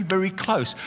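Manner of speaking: normal talking voice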